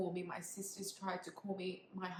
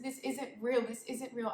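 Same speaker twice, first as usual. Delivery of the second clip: higher, louder, pained insistence; retold desperate protest; 4 semitones higher, 6 dB louder than usual. Mother telling medical staff it isn't real, retold desperate protest. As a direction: raise your voice in disbelief, short of screaming. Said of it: "I was screaming".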